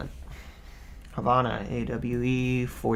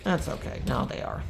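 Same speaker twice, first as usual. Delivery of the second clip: whispered aside; 6 dB quieter than usual. Real, not acted. Quiet aside after kills.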